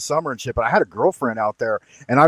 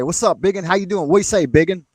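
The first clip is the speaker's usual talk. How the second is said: Southern greeting; 5 semitones higher than usual. Retold or imitated. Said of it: "So they'd always say".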